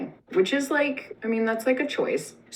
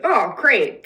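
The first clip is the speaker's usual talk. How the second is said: relieved gush; 4 semitones higher, 6 dB louder than usual. Acted. Esther relieved at the king.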